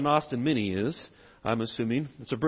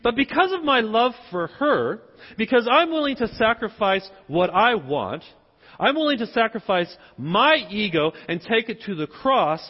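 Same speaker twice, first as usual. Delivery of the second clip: raised, earnest pulpit voice; higher, deliberate preacher emphasis; emphatic preaching; 5 semitones higher, 4 dB louder than usual. Real, not acted. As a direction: press the point with conviction. Preacher drives home the main point.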